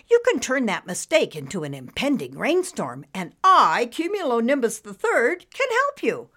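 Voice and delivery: showy storybook cloud; self-important cloud character. Acted. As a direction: announce yourself like a grand cartoon cloud.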